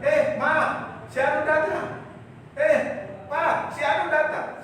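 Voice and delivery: high, loud breezy announcement; quick cheerful call. Retold or imitated. Spouse calls the household about a guest, high and loud. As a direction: call out brightly as if nothing happened. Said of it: "dengan cepat kita berkata".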